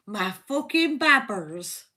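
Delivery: cheery Bristolian lilt; Bristolian accent. Shown as a demonstration. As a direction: toast your mates in Bristolian. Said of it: "In a Bristolian accent".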